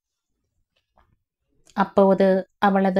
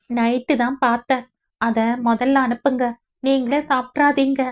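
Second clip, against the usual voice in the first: put-on higher, lightly teasing young bride; brightly change the subject to cheer her up; young woman, playful; 5 semitones higher than usual. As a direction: granddaughter teasing grandmother out of her tears. Roja voiced changing the subject.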